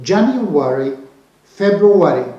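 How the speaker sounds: January and February the American way, a full "-ary" ending; American English pronunciation. Shown as a demonstration. Teacher contrasting with British for learners, American English accent. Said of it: "American English, we say".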